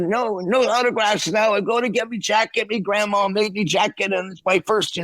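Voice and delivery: high, brash London drummer voice; rough impression of a rock drummer. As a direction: brush off a fan in a hurry, Cockney style. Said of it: "I'm not doing it that great".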